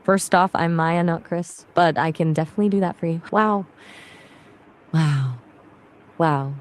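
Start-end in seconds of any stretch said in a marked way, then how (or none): 3.3-3.7 surprised gasp of a wow; shocked. Shown as a demonstration. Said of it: "say wow in a shocked tone". 4.9-5.4 dry, lower sarcastic wow. Shown as a demonstration. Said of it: "then a sarcastic tone". 6.2-6.6 low, flat-out bored wow; totally uninterested. Shown as a demonstration. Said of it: "then a bored tone".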